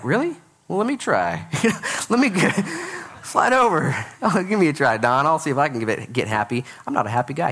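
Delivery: high, playful eagerness to swap places; mock eager. Pastor voicing listeners who want Trump's money, mock eager. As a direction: tease like someone begging for the chance. Congregation mocks Trump's complaint.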